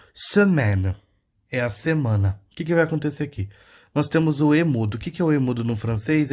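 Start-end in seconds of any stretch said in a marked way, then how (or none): 0.1-1.0 "semaine" with a rounded mute e; French pronunciation. Shown as a demonstration. Teacher showing students how semaine is pronounced, French pronunciation. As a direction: say "semaine" as in French, last e silent. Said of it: "se pronuncia assim".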